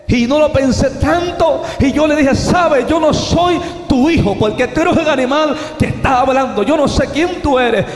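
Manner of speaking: fiery preaching. Acted. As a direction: hurl it back at the beast. Preacher defies the beast. (predicación desafiante y enérgica)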